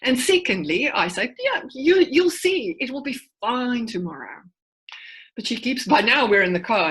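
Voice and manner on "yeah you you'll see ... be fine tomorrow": high, bright dismissive reassurance; breezy brush-off. Retold or imitated. Mum brushing off her crying daughter, breezy and high. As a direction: wave the worry away cheerfully, pitched up. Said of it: "Firstly, I minimize it".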